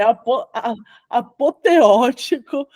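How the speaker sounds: slow mock pronunciation. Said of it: "mas você tá eloquente".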